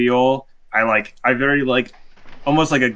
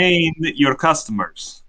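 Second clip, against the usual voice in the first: bad Russian accent; 4 semitones higher than usual. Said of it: "a very bad Russian accent".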